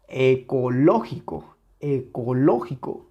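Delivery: ecológico with a heavy beat on LO; stress on tonic syllable. Shown as a demonstration. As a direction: lean into the LO of ecológico. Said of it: "Dónde tiene la sílaba tónica". (ecológico con la sílaba LÓ muy marcada)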